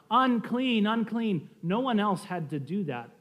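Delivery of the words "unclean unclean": raised-pitch imitation of a warning call; mild mock yell. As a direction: lightly act out a leper's cry. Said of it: "they had to yell out".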